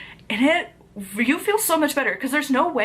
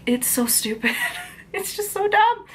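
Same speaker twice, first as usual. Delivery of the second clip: whispered scorn; 11 semitones higher than usual. Real, not acted. Vlogger whispering her verdict on the book. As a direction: mutter it under your breath.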